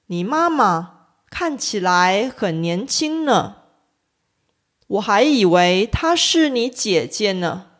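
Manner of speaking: “呢” said light and unstressed; “呢”读轻声; neutral-tone ne. Shown as a demonstration. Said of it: "通常会被发成轻声".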